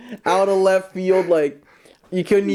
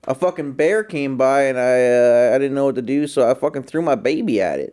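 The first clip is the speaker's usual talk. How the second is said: mild mock Southern storyteller; Southern accent attempt; 2 semitones lower than usual. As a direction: imitate a comedian's Southern shtick, half-hearted. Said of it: "I can't really do the Southern accent".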